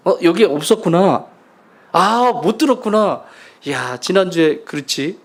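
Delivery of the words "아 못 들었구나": ordinary talk, nothing marked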